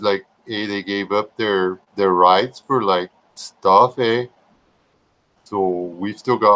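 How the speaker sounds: put-on slow, halting Canadian accent with tagged-on "eh"; mock Canadian accent. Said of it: "the Canadian or the other one".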